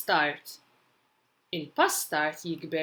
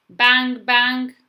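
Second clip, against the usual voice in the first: two loud, raised bangs; banging sound words; 6 semitones higher, 10 dB louder than usual. Acted. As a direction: hit each bang hard and high. Storybook noise words acted out.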